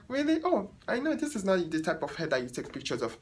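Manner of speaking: a light imitation of the condescending client; mock client. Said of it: "She's like".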